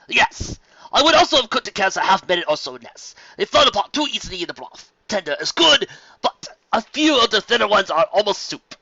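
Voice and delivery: high, loud, courtly welcome; gracious nobleman. A narrator's reading. Fancy Pants greeting the contestants, loud and courtly. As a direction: address the crowd like a genteel aristocrat.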